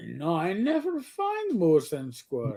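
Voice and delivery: slow mock Russian accent; Boris Bedinov. Answering castmate as the spy, slow mock Russian accent. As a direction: drag it out as a cartoon Russian spy. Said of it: "sounds like Boris Bedinov".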